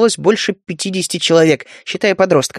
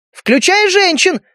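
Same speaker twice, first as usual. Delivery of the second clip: much higher, slow call from the crowd; 12 semitones higher, slower than usual. Acted. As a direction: call it out high. Polly calls out.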